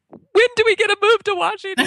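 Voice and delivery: put-on high, eager child voice; excited kids. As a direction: beg like a thrilled kid. Kids begging to move.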